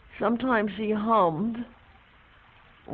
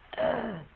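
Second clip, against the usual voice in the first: soft gasp; 2 semitones lower, 7 dB quieter than usual. Retold or imitated. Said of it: "that dreadful breath in".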